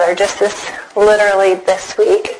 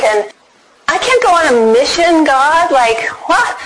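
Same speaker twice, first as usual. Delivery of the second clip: incredulous protest; 4 semitones higher than usual. Retold or imitated. Acted protest to God about mission.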